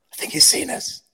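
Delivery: high, hushed acted-out panic; tense stage whisper, imitating alarm; mock alarm. Photographer warning his crew on the beach, in mock alarm. Retold alarm as Costner approaches.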